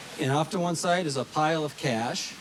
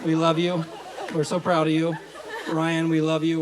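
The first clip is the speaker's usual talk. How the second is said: laughing. Real, not acted. Wedding toast, laughing.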